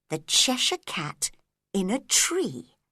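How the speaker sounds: ordinary delivery, nothing marked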